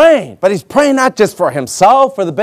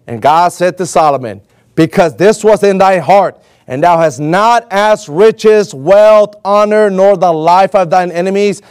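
measured, solemn Bible reading, slowing on key lines; scripture reading; 2 semitones higher than usual. Acted. Pastor reading God and Solomon to church, solemn. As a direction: read it like holy writ, deliberate.

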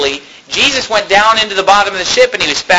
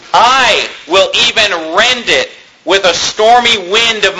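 slow, drawn-out preaching delivery; solemn pulpit reading with weighty pauses; emphatic scripture reading; slower than usual. Acted. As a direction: proclaim the verse, stretching the key words. Preacher reads scripture aloud.

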